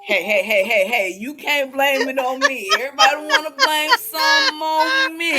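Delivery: loud protest. Real, not acted. Protesting being blamed.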